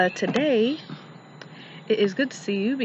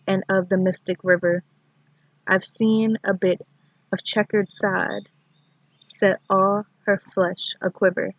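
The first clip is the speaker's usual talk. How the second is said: measured recital with long pauses between lines; poetry reading; 4 dB louder than usual. Acted. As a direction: read the poem in short, deliberate phrases. Recites a poem.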